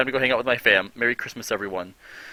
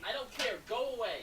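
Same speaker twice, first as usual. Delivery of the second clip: higher, brushing him off; insistent higher go away; 11 semitones higher, 14 dB quieter than usual. Real, not acted. Brushing off friend, higher insistent dismissal. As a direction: tell him to get lost.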